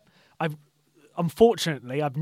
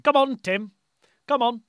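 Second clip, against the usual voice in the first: cheering; 6 semitones higher than usual. Retold or imitated. Cheering on Tim Henman.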